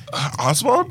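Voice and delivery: lightly voiced Penguin villain; penguin impression. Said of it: "when you do that impression".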